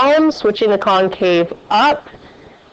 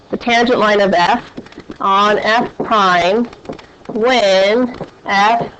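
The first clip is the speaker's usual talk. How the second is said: drawn-out phrases with long pauses; dictating notes; slower than usual. Real, not acted. Teacher giving the class notes to copy, slow dictation. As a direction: dictate it slowly, piece by piece.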